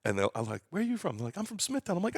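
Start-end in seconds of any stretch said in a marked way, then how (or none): 0.7-1.2 a hint of New York accent, pitched up high. Asking a wedding guest, in a light New York accent. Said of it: "she could hear the accent come out". 1.4-2.0 lightly voiced New York guest, high; New York accent. Voicing a guest from Smithtown, light New York accent. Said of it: "she could hear the accent come out".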